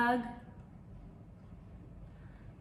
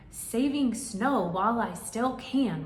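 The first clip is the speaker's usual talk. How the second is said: grumbling; 3 semitones higher, 6 dB louder than usual. Acted. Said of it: "Rabbit grumbled".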